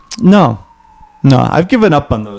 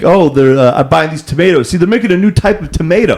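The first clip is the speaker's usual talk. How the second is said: higher, earnest bro voice sharing big news; bro impression; 6 semitones higher than usual. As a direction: pass on the news like a secret.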